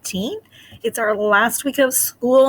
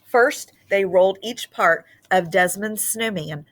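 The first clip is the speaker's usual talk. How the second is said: put-on lively read-aloud storytelling to children; story narration. A narrator's reading. Teacher reading a Christmas book to her class, expressive narration.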